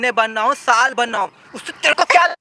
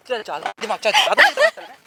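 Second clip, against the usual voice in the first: dismissive chal chal; 2 semitones lower, slower than usual. Acted. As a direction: wave her off, jumping up in pitch. Husband brushing off wife's threat.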